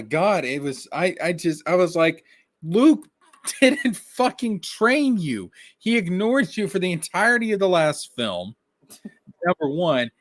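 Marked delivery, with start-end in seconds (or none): 2.6-10.1 outraged rant. Retold or imitated. Ranting at Rey.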